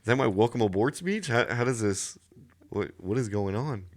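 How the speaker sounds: stammering, mildly stunned newcomer; retold bewilderment. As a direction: replay your own confused disbelief. Retelling his stunned reaction to the greeting.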